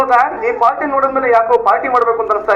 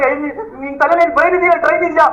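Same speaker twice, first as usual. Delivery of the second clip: higher-pitched, indignant rebuke; angry scolding; 5 semitones higher than usual. Acted. Husband with burnt hand blaming his wife, scolding.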